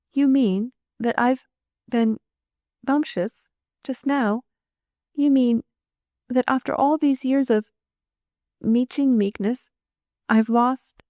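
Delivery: high, halting, stunned disbelief; distraught. Acted. Girl realizes she lost, distraught.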